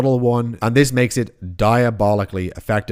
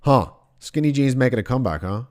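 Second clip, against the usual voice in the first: sarcastic. Retold or imitated. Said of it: "cocked my eyebrow sarcastically".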